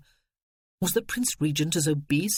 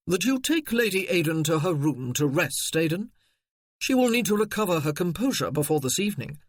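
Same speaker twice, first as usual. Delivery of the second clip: cool haughty. Acted. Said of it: "a cool, haughty voice asked".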